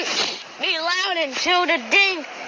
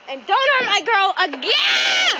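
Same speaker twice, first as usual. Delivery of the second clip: angry shout; 6 semitones higher than usual. Acted. Yelling at the chainsaw.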